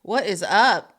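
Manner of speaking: loud, exasperated rant with a laugh; half-laughing mock blowup about fighting someone; retold fed-up outburst. Venting to a co-host about snapping at people, loud. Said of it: "And I was like".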